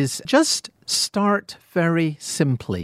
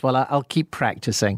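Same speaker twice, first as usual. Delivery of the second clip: laughing retold reply; 4 semitones lower than usual. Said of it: "And my response to that is".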